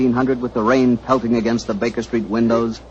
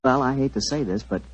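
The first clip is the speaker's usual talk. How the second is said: friendly radio ad pitch; cozy old-time sponsor spot; commercial read. Acted. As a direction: sell the wine to the folks at home.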